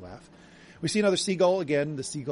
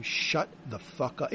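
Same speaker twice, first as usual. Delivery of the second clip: robber's threat; 3 dB quieter, slower than usual. Retold or imitated. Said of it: "in the way that someone robbing you says".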